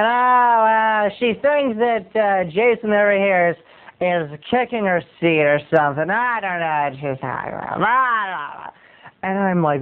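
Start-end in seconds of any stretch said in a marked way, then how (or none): 0.0-8.7 lightly voiced vague buddy; imitated friend. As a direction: trail off into blah-blah as a mock friend. Acts friend Dan's mumbling answer.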